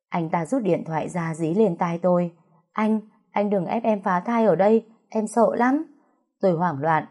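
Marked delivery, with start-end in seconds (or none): 2.7-5.8 frightened plea. Acted. Sister begs over phone, frightened.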